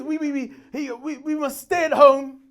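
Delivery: stammering up to the announcement; Boris Johnson. Retold or imitated. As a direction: get stuck, then push the sentence out. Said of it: "you sound like a car trying to start".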